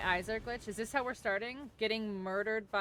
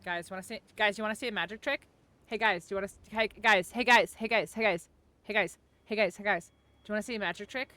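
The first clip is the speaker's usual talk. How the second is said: loud showman calling for attention; kids party magician; 7 dB louder, faster than usual. Pretend. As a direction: call the crowd over like a magician. Calling friends for magic trick.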